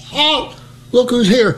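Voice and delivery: a hammed-up high call of halt; high mock call. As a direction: retell the blunder in a squeaky yell. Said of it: "I says".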